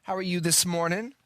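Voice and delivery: upbeat cheery sales voice; fake salesman. Prank caller posing as a flower seller, bright sales pitch. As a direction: play a friendly flower shop caller. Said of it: "My name is Chad".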